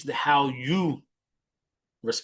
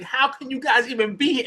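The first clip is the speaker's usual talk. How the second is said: retold tearful challenge; 10 semitones higher than usual. Retold crying woman's challenge.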